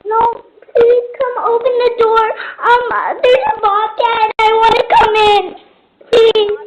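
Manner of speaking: plead, scared and close to crying. Real, not acted. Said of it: "I'm scared".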